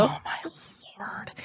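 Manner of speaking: a breathless whisper; whispered Lord. Real, not acted. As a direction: let it fall to a whisper. Breathy exclamation.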